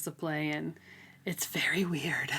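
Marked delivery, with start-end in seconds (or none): 1.2-2.3 half-whispered aside. Real, not acted. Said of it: "She's so weird, dude".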